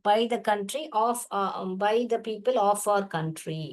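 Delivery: slow, word by word; slow reading. Shown as a demonstration. Teacher reading the textbook line slowly. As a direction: read it out slowly for the class. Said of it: "teacher reading text slowly".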